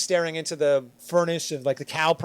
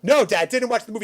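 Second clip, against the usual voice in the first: panicked denial; 6 semitones higher, 7 dB louder than usual. Retold or imitated. Acting his denial to dad.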